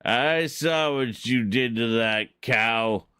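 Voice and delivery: slow drawn-out gunslinger threat; cowboy outlaw. Pretend. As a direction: play the tough Western outlaw. Acting out Outlaw cowboy taunts.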